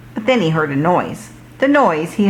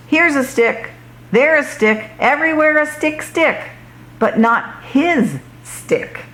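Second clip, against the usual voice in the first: singsong; 7 semitones higher than usual. Acted. Searching in singsong wonder.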